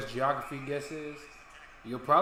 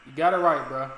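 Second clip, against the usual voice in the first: excited; 9 dB louder than usual. Real, not acted. Repeats the correct guess.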